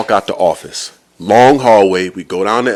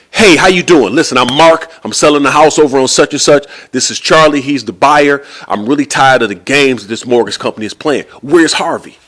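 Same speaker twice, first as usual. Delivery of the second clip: pushy and impatient, slightly raised pitch; bossing up; 3 semitones higher than usual. Retold or imitated. House seller confronting a receptionist, bossing up. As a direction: lean on them like you run the place. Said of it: "he's bossing up on the receptionist".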